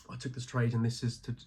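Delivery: breathless, catching her breath. Real, not acted. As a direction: talk while short of breath. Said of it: "so I'm out of breath".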